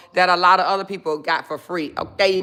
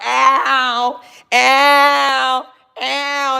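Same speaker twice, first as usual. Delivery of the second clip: high hype whoops, louder; hype cheer; 4 semitones higher, 5 dB louder, much slower than usual. Real, not acted. Cheering veteran viewers in her chat, with high hype whoops. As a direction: whoop it up for the vets.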